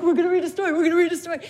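put-on high eager kid repeating it; excited child. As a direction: bounce with excitement, telling everyone. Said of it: "he'd be like".

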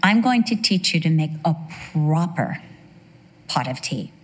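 mock-proper English hostess; English woman. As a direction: patiently instruct with a hint of English accent. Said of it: "And she said".

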